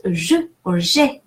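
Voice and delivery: "je or je" said "zhuh or zhay"; first "je" with schwa, second with é; soft "zh" in both, vowel changes from "uh" to "ay"; soft French G. Shown as a demonstration. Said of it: "If it has an accent".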